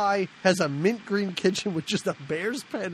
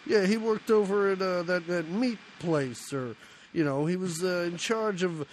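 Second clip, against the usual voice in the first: attempted Chicago accent. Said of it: "they're not in New York".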